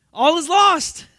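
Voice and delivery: high, loud, hammed-up wail of doom; despairing pessimist. Preacher mocking the pessimist's despair, loud high wail. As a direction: cry it out like all hope is gone. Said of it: "Maybe you're a pessimist".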